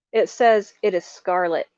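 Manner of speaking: "says" leaned on in disbelief; stress on SAYS. Real, not acted. Telling viewers the label, stressing SAYS. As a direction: press on "says", incredulous. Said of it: "I am not kidding you".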